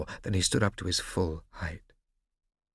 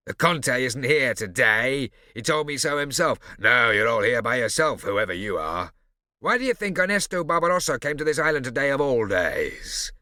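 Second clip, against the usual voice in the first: Barbarossa's voice; 5 semitones higher, 7 dB louder than usual. A narrator's reading. Barbarossa sneering at Morosina, louder. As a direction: lean in and taunt her.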